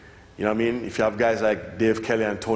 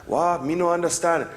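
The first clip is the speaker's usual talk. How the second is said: higher, broken English in a mock Japanese accent; 5 semitones higher than usual. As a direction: play the confused Japanese kid with a mock accent. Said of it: "they look at you funny, like".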